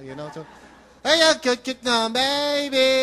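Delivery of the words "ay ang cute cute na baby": put-on lightly higher cooing baby talk; a hint of adult baby talk. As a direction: gush over a cute baby. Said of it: "so that's how you talk".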